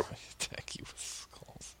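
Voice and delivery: breathy whispered echo. Acted. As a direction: whisper the line back.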